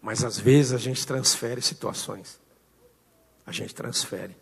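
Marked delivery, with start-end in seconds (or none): 3.5-4.3 soft repetition. Real, not acted. Repeated refrain, dropped low.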